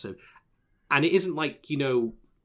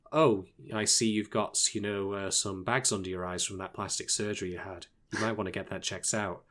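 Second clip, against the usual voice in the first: subdued monotone; 2 semitones lower, 4 dB quieter than usual. Retold or imitated. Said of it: "very subdued, like, you know, very monotone".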